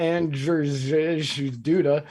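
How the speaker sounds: "Andrzej Duda" sounded out very slowly, syllable by syllable; careful pronunciation. Acted. Reading the Polish president's name aloud, unsure, sounding out "Andrzej Duda" slowly. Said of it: "I have no idea how to say this".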